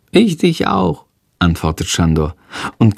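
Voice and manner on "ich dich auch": small excitable creature, voice pitched well up; a fidgety little dragon puzzling at the window; high creature voice. Acted. Shandor wondering about the man in the yard, high and curious.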